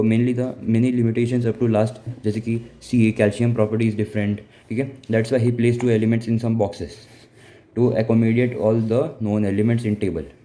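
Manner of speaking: slow, deliberate dictation pace; slow textbook reading voice; reading notes aloud. Acted. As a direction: read it out word by word for notes. Teacher reading notes aloud slowly.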